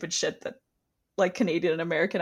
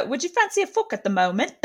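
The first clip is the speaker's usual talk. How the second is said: higher-pitched, over-polite British quote; mock formal; 6 semitones higher than usual. Imitating crass British slang, mock formal. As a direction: put on a formal air for crude words. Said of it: "it's so formal".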